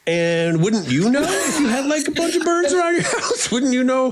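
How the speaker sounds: half-laughing indignant retort, high; playfully huffy comeback; mock resentful. A bird feeder playfully rebuts judging visitors with mock indignation. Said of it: "And I feel resentful".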